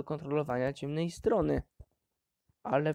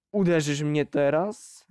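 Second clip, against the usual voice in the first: growled challenge; 4 dB louder than usual. Acted. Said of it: "warknął".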